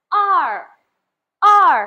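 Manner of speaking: "R" snapped out high and loud, pitch dropping sharply; snapped falling tone. Shown as a demonstration. Teacher models Mandarin number two for learners, "R" with a sharp falling tone. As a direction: say "R" as an abrupt, forceful falling tone. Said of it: "Nadanya lebih sentak".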